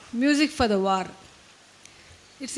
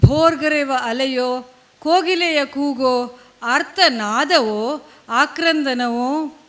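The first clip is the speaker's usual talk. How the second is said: measured phrases with deliberate pauses between them; poetry recitation; 4 dB louder, much faster than usual. Acted. Poet reading a poem on war and music to an audience, recitation.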